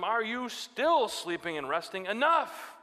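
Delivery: high, loud, slow final call; urgent Jesus. Retold or imitated. Jesus rousing sleeping disciples, loud and urgent. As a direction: wake them, urgently. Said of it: "he said to them".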